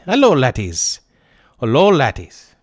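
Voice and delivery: hammed-up Irish accent greeting the lads; a quick put-on Irish brogue for the chat. Streamer thanks chat with a mock Irish accent. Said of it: "speak in an Irish accent".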